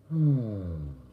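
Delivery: swooning sigh, imitated; dreamy sigh. Wife swooning at Butch's voice, dreamy sigh. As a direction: sigh like you're melting. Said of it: "she went".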